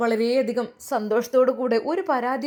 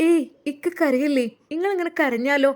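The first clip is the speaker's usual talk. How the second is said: soothing wife; 6 semitones higher than usual. Acted. Wife soothing crying husband.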